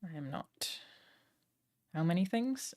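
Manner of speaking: usual speaking voice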